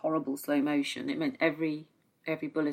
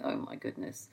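hushed whisper under the breath; whispered in shock; 10 semitones lower, 10 dB quieter than usual. Retold or imitated. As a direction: breathe it out in disbelief. Inner reaction to horrific news.

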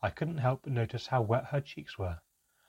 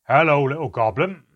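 booming, much louder call; loud greeting; 5 semitones higher, 13 dB louder than usual. Acted. Handelm calling loudly so the others hear. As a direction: call it out so the room behind hears.

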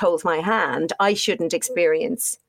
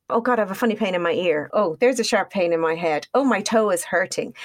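whiny anxious hypochondriac. Retold or imitated. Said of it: "that makes you sound like a hypochondriac".

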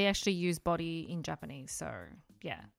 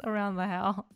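mock surprise; 6 dB louder, slower than usual. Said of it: "I'm like".

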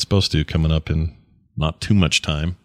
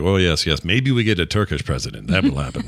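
lightly imitated Turkish accent. Husband quoting the bellhop's hope, light Turkish accent. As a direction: try a gentle Turkish accent, amused. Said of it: "I am doing the accent".

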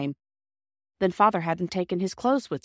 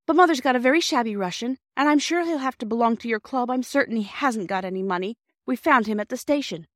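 breathless; 5 semitones higher than usual. Acted. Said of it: "she said breathlessly".

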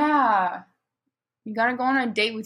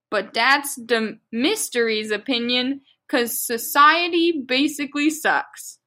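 very slow, deliberate read-aloud; drawn-out reading of a ranting author's note; mock-serious fan fiction reading; much slower than usual. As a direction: read each odd word with laboured care.

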